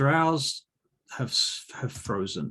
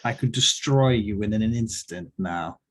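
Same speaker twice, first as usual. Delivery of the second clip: acted villain threat, rising louder at the end; drow threat; 4 dB louder than usual. Drow warns adventurers she could destroy them, acted threat. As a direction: build to a raised, imperious finish.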